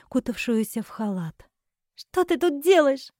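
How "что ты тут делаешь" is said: holding back tears. Acted. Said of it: "Едва сдерживая слёзы".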